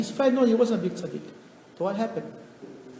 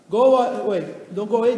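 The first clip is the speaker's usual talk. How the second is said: shouted, louder, kicking him out; wife yelling her husband out of the house; furious shout; 8 dB louder than usual. Acted. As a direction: bark it at the husband to get out.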